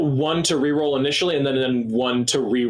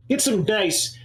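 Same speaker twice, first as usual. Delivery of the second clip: haughty Necromundan noble; 7 semitones higher, slower than usual. Acted. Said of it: "I hate Necromundan accent".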